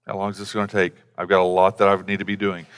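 a husband sighing through a long talk; impatient husband. Retold or imitated. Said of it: "the guy is just like".

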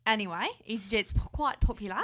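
an attempted Aussie accent; put-on Australian accent. Co-host starting the airline story, put-on Australian accent. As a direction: present the story as a playful Australian. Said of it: "do the rest of the podcast like this".

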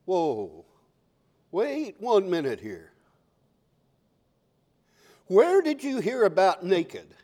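lightly acted puzzled interrogation; a hint of disbelief, unhurried; God questioning. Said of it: "Now imagine God saying".

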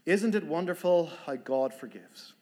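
guard greeting her with a beaming smile; beaming and friendly. Retold or imitated. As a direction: warmly welcome her as an old friend. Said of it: "he came up and said with a beaming smile".

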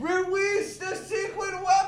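squealing villain quote from an old cartoon; cartoon villain shout. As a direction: bellow it like a movie baddie. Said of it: "Remember that from American Tail?".

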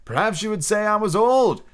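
put-on high-pitched boyish protest; lightly voiced boy. A narrator's reading. Peter's acted protest to Wendy.

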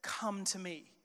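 "Come to me" spoken quietly and tenderly; gentle invitation. Retold or imitated. Preacher voicing Jesus inviting the weary, quietly. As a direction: offer "Come to me" softly, as an open hand. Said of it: "But Jesus says".

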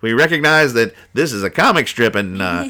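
smug artist. Retold or imitated. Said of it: "sounds like".

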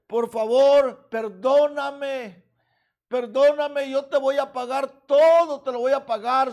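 urgent pleading, slowed on perdóname; begging servant. Acted. Servant begging his master to forgive the debt, earnest plea.

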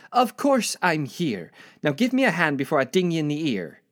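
bossy Scottish grandmother; Granny Ella. Acted. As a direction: draw out the retort, then rush the threat in Scottish. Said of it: "My eighty-year-old grandmother from Scotland is here".

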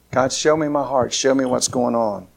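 low, softened plea trailing down at the end; quiet prayer. Real, not acted. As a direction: pray it softly and sincerely. Closes in prayer.

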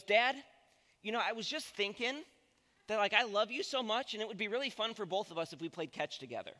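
a light hint of a wheedling six-year-old; butter Dad up, then rush the ask; sweet-talking little boy. Dad imitates his son Bo sweetly angling for catch, lightly voiced. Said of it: "this is how Bo asks to play catch".

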